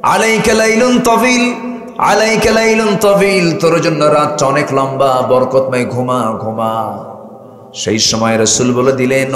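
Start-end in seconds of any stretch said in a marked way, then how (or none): 0.0-7.1 Satan's lullaby. Retold or imitated. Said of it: "শয়তান তিনটা গিট মেরে দিয়ে বলে".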